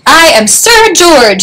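high, slow little knight voice; squeaky knight. A narrator's reading. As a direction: announce it in a timid squeak. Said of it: "squeaked a thin".

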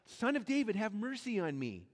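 a blind man calling to be heard; mild mock cry for mercy. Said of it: "but he keeps crying out".

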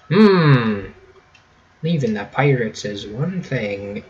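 loosely put-on Irish accent; light mock Irish accent. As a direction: read the dialogue in a casual Irish accent. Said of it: "giving a, a good old Irish accent".

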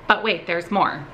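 hammed-up infomercial pitch. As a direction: sell it like a TV infomercial. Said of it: "I literally sounded like an infomercial".

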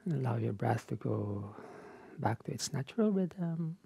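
softened meditation-teacher voice with long pauses; unhurried, hushed guidance, leaving space between phrases; guided relaxation. Real, not acted. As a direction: ease them gently out of the practice. Guides the wind-down after practice.

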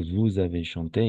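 "vous avez" joined by a z sound; liaison. Shown as a demonstration. Teacher models the next form for a pupil, with liaison. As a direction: run "vous avez" together as "vou-zavez". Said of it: "igual liaison".

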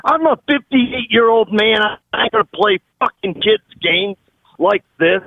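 real irritated protest; fed up, insisting on being taken seriously; indignant, aggrieved complaint; pissed off. Real, not acted. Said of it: "I'm pissed off".

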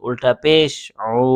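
calm spelled-out example, said in passing; spelling demo. Shown as a demonstration. Teacher spelling out an unclear letter, calm example. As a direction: spell the letter for them calmly. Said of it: "তখন আপনি বানান করেন".

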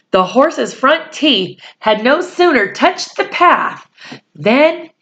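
put-on reading a chapter aloud to children; steady storyteller voice for a class; story narration. A narrator's reading. Reads the novel aloud.

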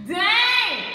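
high, loud drawn-out dang; loud stunned outcry. Acted. Churchgoer stung by God's correction, loud outcry. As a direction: cry it out like a direct hit. Repeats the reaction, now loudly.

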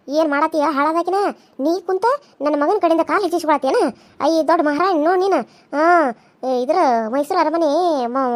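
a lightly voiced nagging old mother-in-law; scolding mother-in-law. Mother-in-law berating the younger wife, lightly voiced nagging scold. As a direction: nag and taunt her like a sharp-tongued elder.

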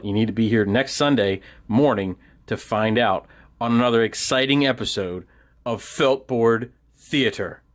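mock-dramatic serial announcer, measured pauses; cliffhanger announcer. Host teasing next Sunday's Feltboard Theater episode, mock-dramatic announcer. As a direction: tease the next episode with suspenseful questions.

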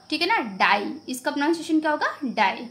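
डाई said clearly with the I sound only; careful demonstration; teacher modeling. Shown as a demonstration. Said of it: "ई का sound नहीं आ रहा है".

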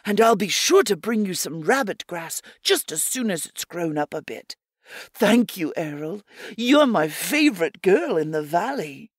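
a keen little rabbit swearing he'll plant it; eager rabbit Pickett. Acted. Pickett the rabbit promising Errol, eager little rabbit voice.

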